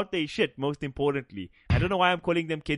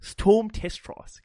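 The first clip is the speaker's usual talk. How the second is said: slow careful read-aloud, a little higher; 5 semitones higher, much slower than usual. Shown as a demonstration. Showing he can read the name aloud slowly in his reading voice. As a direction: sound it out like a kid reading to class. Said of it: "if I do it in the reading voice".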